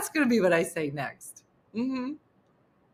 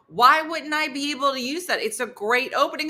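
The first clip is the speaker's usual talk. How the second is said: higher-pitched retold protest; 5 semitones higher than usual. Woman defending her joke opening, protesting. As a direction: argue back in mock innocence.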